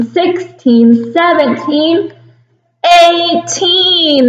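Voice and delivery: put-on steady count-along for little kids. Shown as a demonstration. Teacher counts the days of September with kindergarten. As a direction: count out each number for the class. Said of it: "Please count with me".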